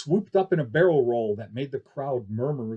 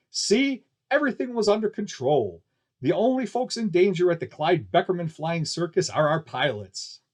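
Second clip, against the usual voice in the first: higher, louder showman boast; triumphant barker; 4 semitones higher, 4 dB louder than usual. Acted. Announcer boasting to the crowd after the landing, triumphant. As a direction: wrap it up with a showman's flourish. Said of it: "the announcer said".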